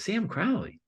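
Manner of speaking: high, slow, laughing disbelief; puzzled lady. Retold or imitated. Lady reading an unknown name, scoffing high and slow. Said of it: "she goes".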